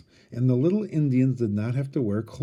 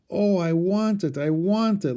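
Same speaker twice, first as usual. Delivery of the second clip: put-on high, eager little girl's plea; begging; 7 semitones higher than usual. A narrator's reading. Child begging her father for the baby, high pleading. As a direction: beg for the baby, voice lifted high. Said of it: "Laura begged".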